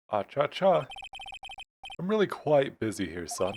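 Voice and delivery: lightly voiced stuffy lawyer; pompous old lawyer. Grossberg refusing a case on short notice, stuffy. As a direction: fob them off with mild pomposity.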